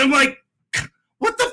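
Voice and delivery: plain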